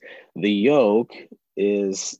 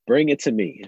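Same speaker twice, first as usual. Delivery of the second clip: put-on calling out to a child, a bit raised; 4 semitones higher, 4 dB louder than usual. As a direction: call over to your little girl. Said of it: "so I call out to her".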